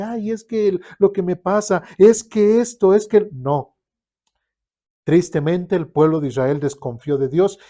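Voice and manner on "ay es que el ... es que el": higher and louder, building into a whiny rant; mock frantic complaint building louder; exasperated complaining. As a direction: sputter excuses, getting more worked up. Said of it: "estarnos quejando de que".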